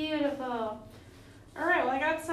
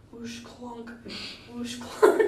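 dishwasher sounds; 7 dB louder, much slower than usual. Shown as a demonstration. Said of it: "kinda like clunk".

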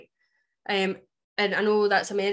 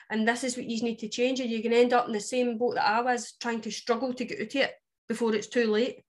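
Scots ned voice. Retold or imitated. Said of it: "he does talk very much Scots Ned".

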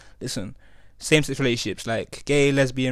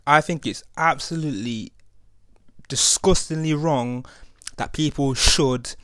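slow teasing build-up; slower than usual. Real, not acted. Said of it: "You thought I was gonna say something different there".

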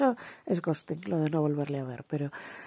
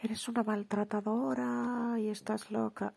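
slow, higher-pitched taunt; drawn-out goading jab; mock accusation; 5 semitones higher, slower than usual. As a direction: drag out the accusation to bait. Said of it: "cuando le dice".

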